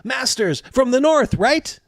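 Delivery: put-on a twelve-year-old local boy greeting travelers; boy guide voice. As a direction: voice the skinny kid, bright and keen. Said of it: "and he says".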